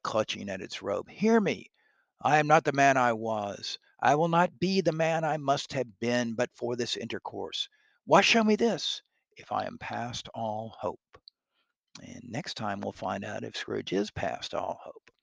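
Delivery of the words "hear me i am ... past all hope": higher, pleading, stress on not; desperate pleading. Acted. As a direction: beg the ghost to hear him. Scrooge pleads, second reading.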